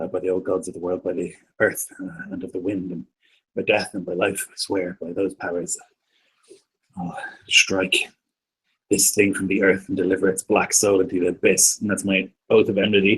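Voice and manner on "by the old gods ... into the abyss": quiet muttering murmured under the breath. Swearing an oath in character before attacking: muttering quietly under breath. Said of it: "say, uh, quietly to myself".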